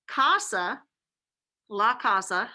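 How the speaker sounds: "Casa" said the Spanish way, "la casa" with stress on la; Spanish word casa. Shown as a demonstration. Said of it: "house, is feminine".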